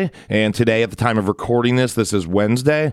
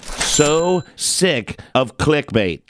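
slow, fed-up groan of disgust; exasperated; 3 semitones higher, much slower than usual. Real, not acted. Podcaster venting about clickbait, slow and exasperated. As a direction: drag it out like you're sick to death of it.

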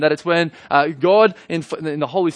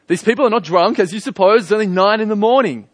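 lightly acted preacher, pitched higher; raised-voice address; 4 semitones higher, 4 dB louder than usual. Peter defending the believers to the crowd, raised voice. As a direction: lift the voice to a crowd, mildly proclaiming. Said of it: "raised his voice and addressed the crowd".

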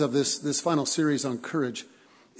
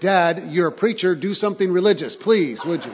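pleading son; 3 semitones higher, 8 dB louder than usual. Retold or imitated. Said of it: "He said".

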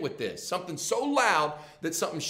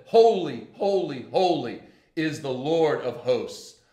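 loud, ringing proclamation, easing down; angels calling out; 6 dB louder, slower than usual. Acted. Angels calling to one another in Isaiah's vision, proclaiming loudly. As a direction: call out each "Holy" with force. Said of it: "listen to what the angels call".

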